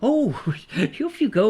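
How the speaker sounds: high, comic send-off; playful high-pitched dismissal; mock dismissal. Dismisses imaginary tax man.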